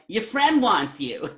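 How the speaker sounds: high, slow put-on call; hammed-up holler. Passing a message to the clerk afar, hammed-up holler. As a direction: sing out the message across the store.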